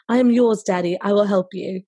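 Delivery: light put-on English accent. Host voicing the submissive texting partner, light English accent. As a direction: answer obediently in a makeshift English accent. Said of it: "do an English accent".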